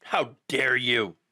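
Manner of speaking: slow, low sneering imitation of a critic; mock outraged pundit. Mocking a critic outraged at Bill Burr. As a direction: ham up a pearl-clutching critic. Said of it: "He's like".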